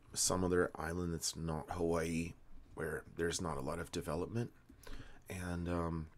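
slightly slurred, medicated speech; slurring words. Real, not acted. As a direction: let the words blur together a little. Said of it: "excuse me slurring my words".

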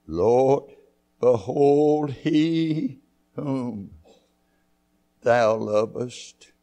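behold stretched out very slowly, then he whom thou lovest drawn out; slow reverent quoting of the verse; slow deliberate reading. Shown as a demonstration. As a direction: lay each word down slowly for weight. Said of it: "to underline that word, Lord".

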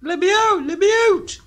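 pleading. Real, not acted. Trapped in a horror game room.

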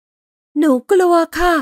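put-on high, slow little girl's voice; small scared child, barely daring to speak; Dinah frightened. A narrator's reading. Dinah admits her fear to Laurel in a high, slow child voice. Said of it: "ไดนากระซิบ".

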